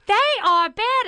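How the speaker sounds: insistent Brooklyn mom, pitched high; imitated high Brooklyn mom voice; mother's Brooklyn accent. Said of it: "her accent. She's got a Brooklyn accent".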